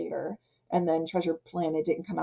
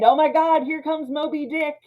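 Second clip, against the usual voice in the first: mock panic; 7 semitones higher, 4 dB louder than usual. Voicing panic at the whale.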